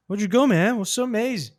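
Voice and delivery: "Why did you go" run together as a blurred "o-joo-go"; jumbled pronunciation. Shown as a demonstration. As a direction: imitate a learner guessing, swallowing sounds in "It was so amazing". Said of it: "Não, tá embolado".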